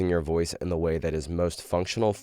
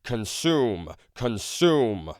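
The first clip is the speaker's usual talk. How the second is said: big projected truck-ad announcer, pitched up, words drawn out; 5 semitones higher, slower than usual. Shown as a demonstration. Teacher demonstrating a radio truck commercial narrator, in a big announcer voice. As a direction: boom it out like a hammy car dealership commercial narrator. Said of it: "the next exercise that I call the announcer voice".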